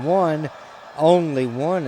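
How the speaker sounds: lively ringside count; excited count. Real, not acted. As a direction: call the count with rising excitement. Near pinfall count.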